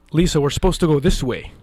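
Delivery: urgent call. Retold or imitated. Steering assistant through crowd.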